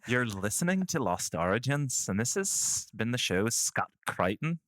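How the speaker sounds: lightly attempted Scottish accent; best Scottish accent. Co-host takes a turn at the challenge, half-landed Scottish accent. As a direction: try a hesitant Scottish lilt, slowing on the name. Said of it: "in our best Scottish accent".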